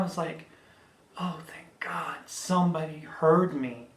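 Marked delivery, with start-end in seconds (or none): 1.2-3.9 breathy whisper of relief; relieved whisper. Retold or imitated. Trapped driver whispers her relief when strangers hear her. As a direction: whisper it like a prayer answered.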